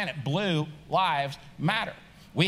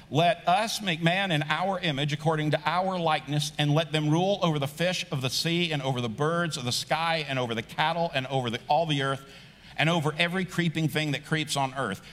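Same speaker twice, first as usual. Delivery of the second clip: scripture reading. Acted. Reads Genesis aloud to congregation.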